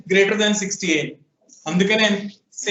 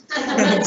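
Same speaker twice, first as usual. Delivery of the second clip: brief amused laugh; short chuckle. Real, not acted. Teacher joking that thinking won't cook curry, short chuckle.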